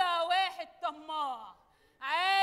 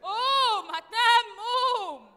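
urging loudly; 3 semitones higher, 6 dB louder than usual. Acted. Waking someone loudly.

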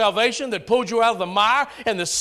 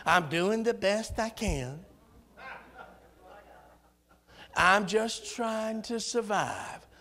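mock excuse; 8 dB quieter, slower than usual. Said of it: "there's two things I can't stand".

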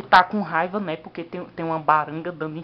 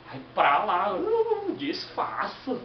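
put-on irritated rich kid; 6 semitones higher, much slower than usual.

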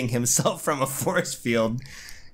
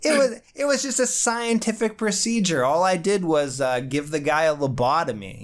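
high mock-innocent scientist; pretending it was routine; mock Reed; 4 semitones higher than usual. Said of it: "it's like".

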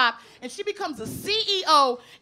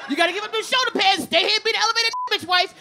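pushy townsfolk; 3 semitones higher, faster than usual. Retold or imitated. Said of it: "they go".

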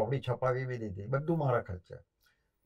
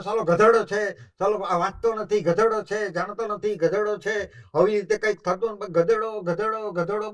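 higher, louder angry scolding; mock angry scolding; 4 semitones higher, 4 dB louder than usual. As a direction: scold the clumsy pupil. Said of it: "ગુસ્સો તો એટલો કરે".

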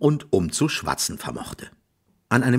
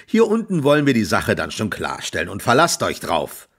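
louder, sarcastic farmer voice; grumbling landowner, louder; gruff farmer; 4 semitones higher, 4 dB louder than usual. Acted. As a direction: scold the thief with heavy irony. Farmer voice continues.

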